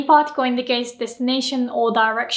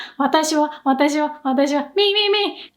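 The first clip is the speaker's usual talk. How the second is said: mock self-obsessed me me me; 3 semitones higher than usual. Shown as a demonstration. Teacher mocks a speaker who keeps saying 私は, self-centred. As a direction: lay it on thick, all about yourself. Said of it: "It sounds like that".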